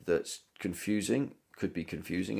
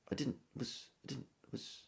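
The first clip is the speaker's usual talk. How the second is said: "I didn't" and "was" almost dropped, much softer; unstressed bits swallowed; 4 semitones higher, 12 dB quieter than usual. Shown as a demonstration. Teacher showing students how unstressed words vanish. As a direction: throw away "didn't" and "was" as near nothing. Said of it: "become nothing almost".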